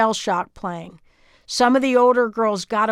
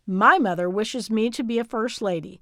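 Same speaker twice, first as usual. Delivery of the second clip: put-on posh British accent, nose in the air; haughty British lady. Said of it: "tried it in a haughty British accent".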